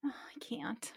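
breathy unvoiced whisper. Real, not acted. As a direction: whisper it in disbelief. Reacting, whispered.

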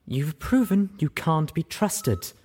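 slow, cold snap; snapped. Acted. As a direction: cut her down. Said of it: "she snapped".

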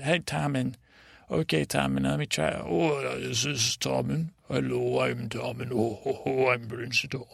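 slightly altered imitation of Tom; lightly voiced impersonation, feeling for the voice; trying on Tom's voice. Podman tries on Tom's voice to take over, tentative imitation. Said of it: "he talks like this".

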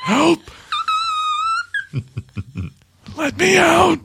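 high, loud cry for help; shrieking demon trapped inside; trapped demon screaming. Pretend. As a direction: scream to be let out. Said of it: "Clawing its way out".

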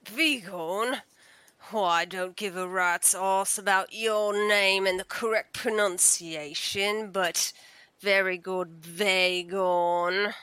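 loud, rough, dismissive jailer; gruff guard voice. Acted. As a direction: bark it at a prisoner. Guard sneering at prisoner.

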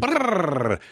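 lips buzzed like a card on spokes; playful bike-spoke brrr; mock card flapping in spokes. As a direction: rattle it out with the lips. Imitating baseball card in spokes.

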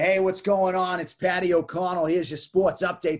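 put-on upbeat Boston accent. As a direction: do a Boston kid reading a sports update. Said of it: "the Boston accent".

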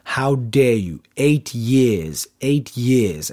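slow, drawn-out aggressive accusation; imitating an aggressive accuser, deliberately paced; aggressive confrontation. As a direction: retell her outrage, leaning on each word. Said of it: "really, aggressively saying".

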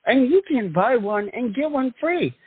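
pitchy late night TV ad voice; infomercial announcer. Acted. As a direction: sell it like a cheesy TV ad.

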